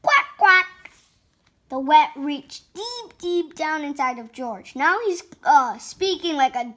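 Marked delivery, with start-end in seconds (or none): 0.0-0.9 two short, loud quacks; duck quack. Acted. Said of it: "George went".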